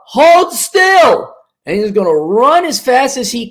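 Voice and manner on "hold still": much higher, louder shout of hold still; yelled command. Pretend. Dave shouting to the bent-over client, loud command. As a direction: bark it across the room.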